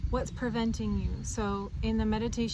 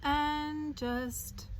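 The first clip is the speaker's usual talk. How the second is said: calm guided meditation voice, with long pauses; unhurried meditation leader, phrases settling at the ends; 4 dB quieter than usual. Acted. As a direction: ease the listener gently into grounding. Leads a meditation.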